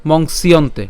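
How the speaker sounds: মংসিয়ন্তে as one word, s linked to iyonte; joined together. Shown as a demonstration. Teacher shows the whole word, মংসিয়ন্তে unbroken. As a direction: run মংসিয়ন্তে together as "mongsiyonte". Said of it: "পুরোটিকে একসাথে উচ্চারণ করলে".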